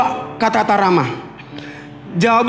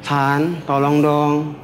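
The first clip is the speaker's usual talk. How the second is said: sweet request; 9 semitones lower, 3 dB quieter, much slower than usual. Shown as a demonstration. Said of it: "perlakukan suamimu sebagai suami".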